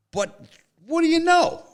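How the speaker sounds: mock indignant outburst; emphatic challenge. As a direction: hurl the question at him. Punchline challenge to the player.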